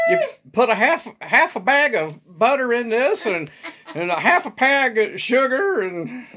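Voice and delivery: high laughing mock cooking host. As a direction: giggle through a pretend recipe.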